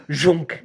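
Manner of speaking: punchy vocal sound effect; short snatching noise; imitated grabbing noise. Imitates paws grabbing the hand.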